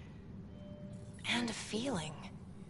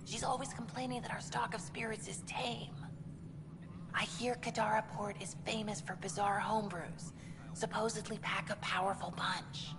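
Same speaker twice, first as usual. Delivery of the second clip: hushed, conspiratorial half-whisper; 6 dB quieter than usual. Acted. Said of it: "Why are you whispering?".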